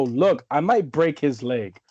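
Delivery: wrestling heel taunt. Pretend. Wrestler taunting the crowd as a heel, cocky goading. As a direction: taunt them like a villain who might break a leg. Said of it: "I'm gonna go".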